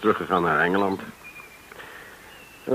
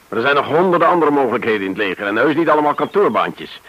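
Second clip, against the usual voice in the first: losing his temper; 3 semitones higher, 4 dB louder, faster than usual. Acted. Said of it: "niet mijn gewoonte me zo te laten gaan".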